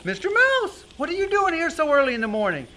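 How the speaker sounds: high-pitched cartoon mouse; squeaky astonished mouse; surprised Ben Mouse. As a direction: exclaim in surprise, starting way up.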